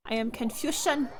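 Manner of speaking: meme confusion. Pretend. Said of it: "I was so confused".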